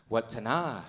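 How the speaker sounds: Watana with a short first WUT and open final NAH; native name pronunciation. Retold or imitated. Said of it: "you can pronounce it two different ways".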